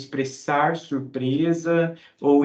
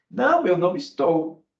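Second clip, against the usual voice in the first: firm "Não", a touch higher; contradicting; 4 semitones higher, 4 dB louder than usual. Shown as a demonstration. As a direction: insist with "Não". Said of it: "contradizer o que a pessoa disse". (contradizendo, ênfase no "Não")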